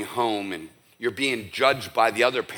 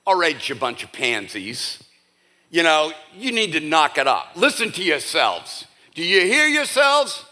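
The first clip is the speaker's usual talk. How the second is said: mock scolding; 2 semitones higher than usual. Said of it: "he doesn't stand there like".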